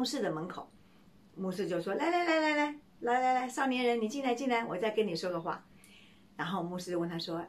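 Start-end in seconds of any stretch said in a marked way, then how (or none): 2.0-5.7 beckoning pastor. Acted. Pastor calls young man back.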